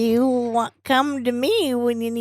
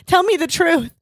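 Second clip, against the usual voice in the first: jealous wife; 4 semitones higher than usual. Acted. Acted jealous wife confrontation.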